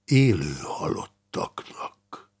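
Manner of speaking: grim, deliberate verdict; grave answer. Acted. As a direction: pronounce it heavily and slowly. Grim answer after stunned silence.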